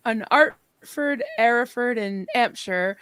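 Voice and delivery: imitated London slum accent dropping H's; retold London accent, 'Artford, 'ereford and 'ampshire; London accent, dropped H's. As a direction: drop the H's like a London flower girl. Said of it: "she didn't pronounce her A".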